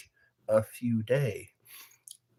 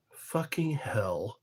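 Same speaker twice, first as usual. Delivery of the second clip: slow breathless whisper; 5 dB quieter, slower than usual. Real, not acted. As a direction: whisper the curse slowly. Whispered curse.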